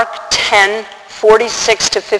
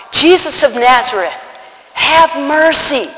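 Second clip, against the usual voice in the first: imitated plea, rising higher and slowing; mild cry out; 5 semitones higher than usual. Blind beggar begging Jesus all the more, in a restrained cry. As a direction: cry out again, only half-voiced. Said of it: "all the more cries out".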